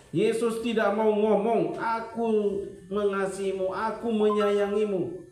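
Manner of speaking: slow, high, loud preaching; slow emphatic sermon proclamation. Real, not acted. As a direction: drag each word out for weight.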